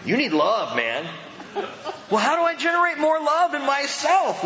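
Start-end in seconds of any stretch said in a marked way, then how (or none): 2.1-4.4 much higher mock-puzzled voice, laughing; mock churchgoer. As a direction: play a bewildered worshipper, half laughing. Mimicking a dry churchgoer.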